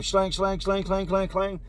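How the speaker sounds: rhythmic clanging of opening doors; evenly repeated imitation clangs; imitated cell doors. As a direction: sound out metal doors popping one after another. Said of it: "I hear cell doors popping".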